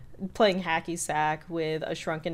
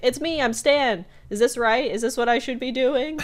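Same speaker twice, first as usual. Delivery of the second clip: eager Stan; 6 semitones higher, 6 dB louder than usual. Retold or imitated. Stan barging into game show.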